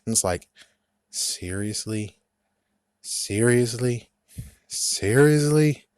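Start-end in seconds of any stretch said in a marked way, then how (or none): 1.1-5.8 building disbelief. Real, not acted. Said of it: "rising disbelief, repeated".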